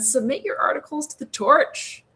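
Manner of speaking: whispered plug. Real, not acted. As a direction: breathe it out unvoiced. Whispered plug after laugh.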